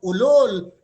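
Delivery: shouted rebuke; a preacher quoting harsh words loudly; loud insult. Retold or imitated. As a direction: hurl the insult out. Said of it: "Sinasabi ni Jesucristo".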